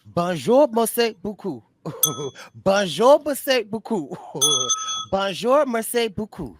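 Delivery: high, loud playful French chant; excited mock French. Real, not acted. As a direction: chant bonjour merci beaucoup giddily. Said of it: "I just was excited about that".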